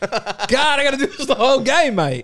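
put-on British accent, forced to keep it up all game. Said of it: "Speak with a British accent for the rest of the game".

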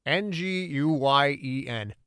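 spelling slowly. Acted. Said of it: "spelling out".

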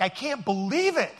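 slow, drawn-out disbelief on believe; mock amazement. Shown as a demonstration. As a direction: savour it like an amazed ad customer. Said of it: "No, it has to be like".

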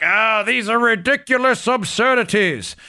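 mock British indignation, words stretched; British accent. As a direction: put on a British accent, badly. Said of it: "in your British accent".

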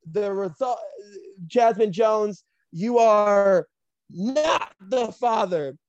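dramatic pauses, slow drawn-out verdict; mock paternity-result announcement. Bryce reading Jazz the paternity result, dramatic announcer. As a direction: announce it grandly, stretching the last words.

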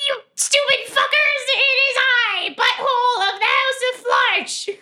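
high, grandiose mock proclamation; Butthole. Impostor running up to distract the guards, pompous high shout. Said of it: "I turn into Butthole. And I run up and I'm like".

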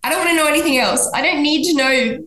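tired, laughing "just stop"; exasperated. Retold or imitated. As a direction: shut her down, laughing in disbelief. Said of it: "'cause I'm like".

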